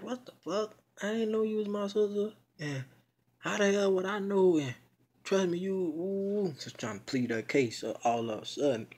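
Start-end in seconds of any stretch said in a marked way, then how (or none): 0.0-4.6 high, loud, defensive outrage; indignant protest. Retold or imitated. Accused sibling denying he knew, high indignant protest. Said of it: "He was like".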